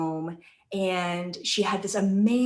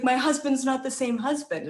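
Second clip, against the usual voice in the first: retold panic; 5 semitones higher than usual. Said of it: "freaking out".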